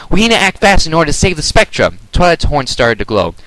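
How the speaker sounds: urgent. A narrator's reading. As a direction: drive it with urgency.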